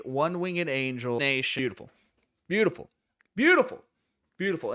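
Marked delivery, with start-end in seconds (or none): 1.6-4.7 building praise. Real, not acted. Praising the move repeatedly.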